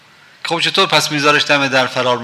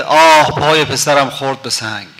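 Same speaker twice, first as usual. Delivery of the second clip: mother's heart lamenting; 3 semitones lower than usual. Retold or imitated. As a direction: let the dead mother's heart sigh out its grief. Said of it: "کبد صدا در میاد که".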